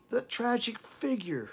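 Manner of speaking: high loud cry of a title; shouting sister. Retold or imitated. Reciting lyric, sister shouts the line. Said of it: "her sister did shout".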